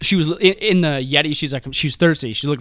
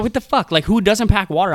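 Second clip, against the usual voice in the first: mock outrage, pitched up; imitating pissed-off disbelief; 5 semitones higher than usual. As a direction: retell her indignant outburst, higher-pitched. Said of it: "she was fucking upside down pissed".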